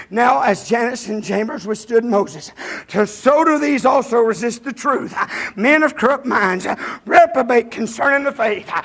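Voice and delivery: slow, weighty Bible reading; scripture reading. Real, not acted. Preacher rereading the verse to the congregation, slow and weighty. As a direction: read it out with gravity.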